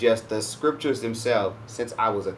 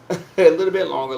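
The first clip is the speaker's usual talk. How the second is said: laughing; 6 semitones higher, 7 dB louder than usual. Real, not acted. Playful singsong about deeper relationship.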